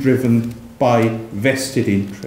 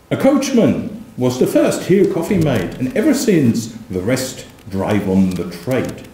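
poem reading. Acted. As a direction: roll out the insult like a pamphleteer. Reads poem couplets.

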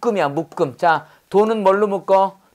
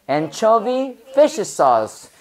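slow model reading; much slower than usual. Shown as a demonstration. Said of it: "해볼까?".

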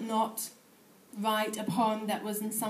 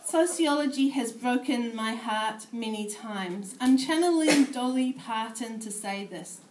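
measured spoken-word poetry reading; poem reading; 3 dB louder than usual. Acted. Poet reading her piece to a room of sociologists, measured recital. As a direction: read it as a performed poem.

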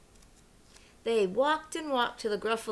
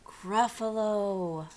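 drawn-out monster name; lingering, dropped-down reveal; slow reveal; much slower than usual. Acted. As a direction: stretch the name out after the build-up.

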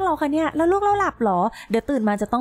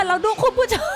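surprised call; 6 semitones higher than usual. Real, not acted. Shocked call to viewers.

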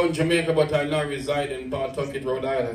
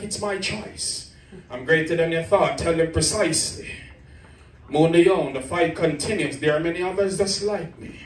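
rhythmic, dramatic poetry recital; defiant slam poetry against abuse; spoken word poem; 2 semitones higher than usual. Acted. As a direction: build the poem with rising force. Performs second spoken word poem.

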